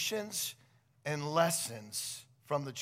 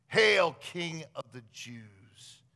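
sarcastic mockery; 7 dB louder, much slower than usual. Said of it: "then sarcastically declaring".

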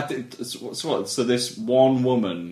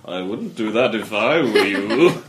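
omniscient narrator; 4 semitones lower than usual. Retold or imitated. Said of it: "the omniscient narrator going".

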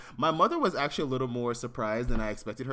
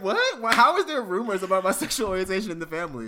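surprised; 8 semitones higher, 7 dB louder than usual. Retold or imitated. Retells own shocked reply.

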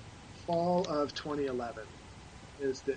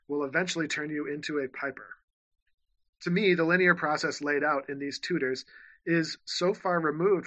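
louder, formal read-aloud voice; 4 dB louder than usual. Shown as a demonstration. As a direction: read the excerpt out with conviction. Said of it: "this is just an excerpt".

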